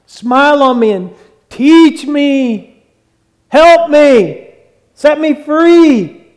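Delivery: high, drawn-out plea to God; pleading prayer. Acted. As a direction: call it out slowly and loudly, stretching each word. Preacher acting out a pleading prayer.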